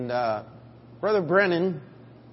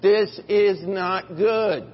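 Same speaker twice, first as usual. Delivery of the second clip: alarmed; 4 semitones higher, 6 dB louder, much slower than usual. Retold or imitated. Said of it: "I'm sitting there going".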